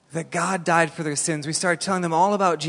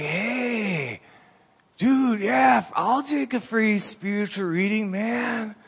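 hippie voice; 5 semitones higher, much slower than usual. Retold or imitated. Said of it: "And like".

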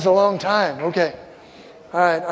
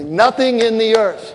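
slow call to repeat; 2 semitones higher, slower than usual. Shown as a demonstration. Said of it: "say this with me".

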